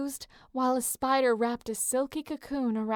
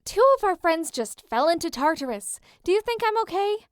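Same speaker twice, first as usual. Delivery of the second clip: higher, louder angry snap; snapped; 7 semitones higher, 5 dB louder than usual. A narrator's reading. Piper snaps at Leo about their fallen friends, angry. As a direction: bite back at him. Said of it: "Piper snapped".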